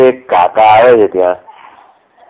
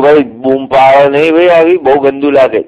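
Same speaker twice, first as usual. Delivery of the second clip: raised, higher voice telling him off; urgent hush-scold; 5 semitones higher, 5 dB louder than usual. Retold or imitated. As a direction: stop him shouting, urgently. Scolding uncle for shouting. (ઊંચા અવાજે ઠપકો)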